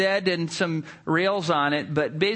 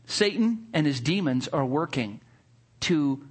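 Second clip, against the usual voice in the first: preaching. Acted. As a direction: press the lesson home to the congregation. Turns story into sermon point.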